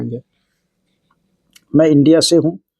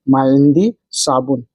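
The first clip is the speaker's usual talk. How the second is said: slow demo; slower than usual. Shown as a demonstration. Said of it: "इसको आप अरबी बोलेंगे".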